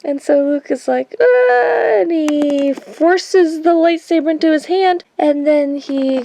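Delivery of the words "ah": high strained grunt of effort; mock Jedi strain, high and loud; effort shout. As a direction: yell like you're yanking something free. Luke forcing the lightsaber free.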